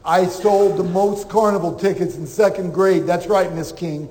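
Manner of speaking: retold boast with mock-serious pride; proud boast. Applicant answers the interviewer about carnival sales, proudly boasting.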